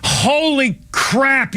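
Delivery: slow, stretched holy crap in disbelief; real exasperated groan of a word; drawn-out outrage. Real, not acted. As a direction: let it out slowly, stunned and furious. Outraged rant at the airline.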